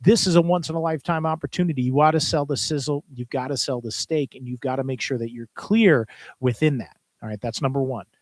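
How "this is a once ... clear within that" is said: auctioneer pitch. Shown as a demonstration. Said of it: "marketing phrases".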